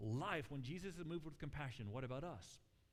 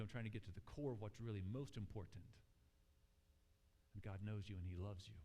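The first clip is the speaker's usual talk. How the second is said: lower, softening toward the end; gentle Jesus; 5 semitones lower than usual. Retold or imitated. Jesus answering the woman, lower and gentle. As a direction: settle her down with calm love. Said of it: "the compassionate thing for him to do is to say".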